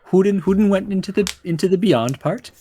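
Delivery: lilting gnome voice; small gnome. Acted. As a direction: stammer it out as a little gnome. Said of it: "you see a small gnome".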